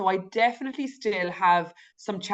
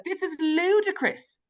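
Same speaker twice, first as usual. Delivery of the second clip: incredulous self-reminder; 10 semitones higher than usual. Retold or imitated. Guest reminding herself about the old diet clubs, incredulous. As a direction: stretch it out high, as if scoffing at yourself.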